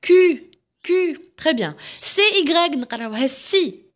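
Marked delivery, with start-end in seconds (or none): 0.1-1.2 "كو" as French "ku" with rounded ü, raised in pitch; teacher modelling "كو" as in French culture; French cu demonstrated. Shown as a demonstration. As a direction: repeat "كو" on a held high note, pausing between. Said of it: "كيما كلمة كولتور".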